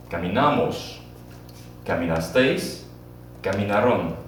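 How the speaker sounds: Caminamos, Caminasteis, Caminaron, each said clearly with a pause between; model for repeating. Shown as a demonstration. Teacher models caminar conjugation for class, clear and measured. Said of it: "Repeat after me".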